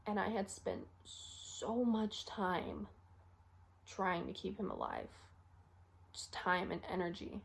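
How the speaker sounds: soft, drawn-out frustration; quiet regret. Acted. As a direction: dwell slowly and quietly on the loss. Acted regret over wasted effort.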